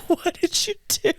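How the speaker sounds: high, astonished mock question; shocked. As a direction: ask it wide-eyed and stunned. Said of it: "I just looked at her like".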